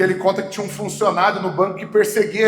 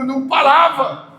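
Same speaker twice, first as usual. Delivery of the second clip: ordinary talk, nothing marked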